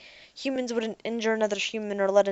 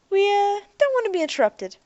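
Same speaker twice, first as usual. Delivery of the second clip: urgent; 12 semitones higher, 6 dB louder than usual. A narrator's reading. Ariel urging haste.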